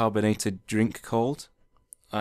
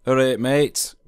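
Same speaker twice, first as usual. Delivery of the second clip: louder and higher Yorkshire greeting, "All right, mate" called out as ah-ret mey; broad Yorkshire greeting; 4 semitones higher, 7 dB louder than usual. Shown as a demonstration. Showing visitors what they'll hear in Yorkshire, broad Yorkshire greeting. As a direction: call it out like a friendly Yorkshireman. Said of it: "three words that you may commonly hear if you ever visit Yorkshire".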